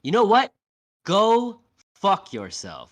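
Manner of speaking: retold snap at A-Train, loud and high; snapping. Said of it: "she fucking snaps".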